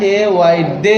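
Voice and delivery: ডি, এ, ওয়াই as separate letters, then joined as ডে; spelling by syllable. Shown as a demonstration. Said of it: "ভাগ ভাগ করে পড়ে নিচ্ছেন".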